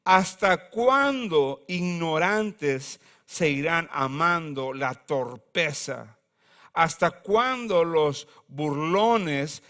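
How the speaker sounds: slow, weighty reading of the verse; solemn scripture reading. Acted. Preacher reading Proverbs to congregation, slow and solemn. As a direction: let each question land slowly.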